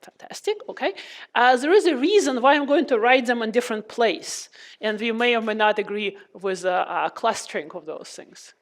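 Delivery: muffled by a face mask; through a face mask. Real, not acted. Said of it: "it's very hard to hear from the mask".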